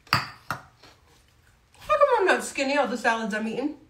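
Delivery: chewing while talking; mouth full. Real, not acted. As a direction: talk through a mouthful. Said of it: "Sorry, I'm chewing with my mouth open".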